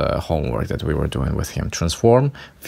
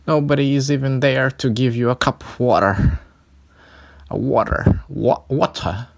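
lightly put-on British accent, pitched up; a hint of British, rising to a squeaky "Water?"; 6 semitones higher than usual. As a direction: play at posh British asking for water. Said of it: "I'm trying my British accent".

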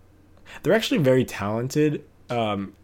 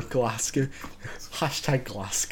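put-on slow Scottish-accented "Glasgow", short final vowel; mock Scottish accent; 5 dB quieter, much slower than usual. Joking about Scottish search words, mock accent. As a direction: play at saying "Glasgow" like a Scot. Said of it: "looking for the words hone in and Glasgow".

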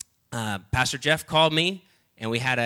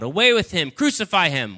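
yelling crowd; 5 semitones higher, 4 dB louder than usual. Acted. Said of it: "they yelled".

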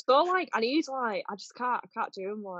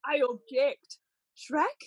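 Fiona voice; slower than usual. Acted. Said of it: "Object, Fiona".

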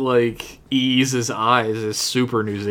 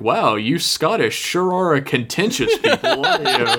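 higher, mildly put-on cartoon principal voice; Principal Skinner; 4 semitones higher than usual. Principal commenting to the Scottish groundskeeper, mild imitation. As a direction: lightly impersonate a remarking school principal, ending in a laugh. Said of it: "Principal Skinner's like".

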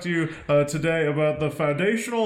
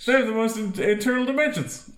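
pitchman; 3 semitones higher than usual. Acted. Acted pitch sketch.

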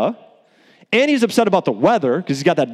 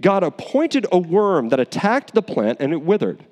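measured, solemn Bible reading; scripture reading; 3 semitones higher than usual. Acted. Preacher reading Jonah aloud to the congregation, solemn.

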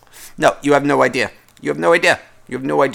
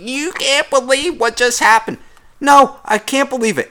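mock gossiping coworker; 10 semitones higher than usual. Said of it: "someone come out and be like".

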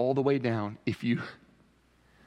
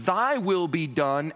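sincere surrender; 4 semitones higher, slower than usual. Shown as a demonstration. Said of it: "notice the difference between".

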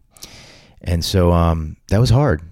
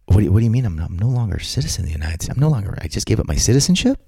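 shocked disbelief; 3 semitones higher than usual. Retold or imitated. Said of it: "I went".

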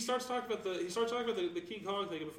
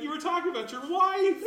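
mock scolding; 8 semitones higher, 6 dB louder than usual. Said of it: "you were like".

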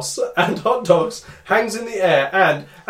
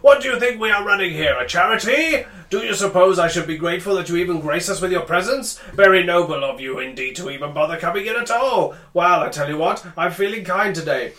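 booming male voice; 2 semitones higher than usual. Acted. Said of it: "he yells".

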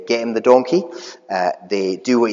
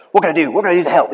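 higher, louder, eager imitation of the Shrek donkey; hammed-up keen donkey begging to help; excited Shrek donkey; 6 semitones higher, 6 dB louder, much faster than usual. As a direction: bounce in like an overeager helper. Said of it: "He's so excited".

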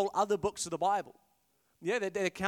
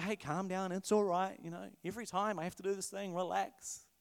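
calming angel; 6 dB quieter than usual. Retold or imitated. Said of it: "He's like".

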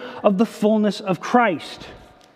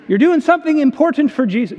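higher, quick mock Southern accent; 4 semitones higher, 3 dB louder, faster than usual. Pastor repeating the busy-church boast for the congregation, Southern accent. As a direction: put on a Southern preacher's accent, pitched up and hurried. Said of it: "kind of Southern accent".

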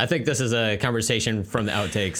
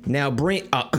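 put-on New Zealand accent; 4 semitones higher, slower than usual. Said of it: "That was a New Zealand accent".

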